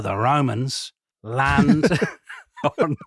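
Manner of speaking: slow, drawn-out epic announcement; dramatic Russell Crowe voice. Acted. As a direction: stretch it out like a film trailer. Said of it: "Are you gonna be doing this throughout".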